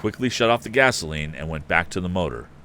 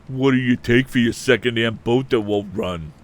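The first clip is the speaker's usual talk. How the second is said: taunting crony; 5 semitones higher, 6 dB louder than usual. A narrator's reading. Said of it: "asked Pete Bailey".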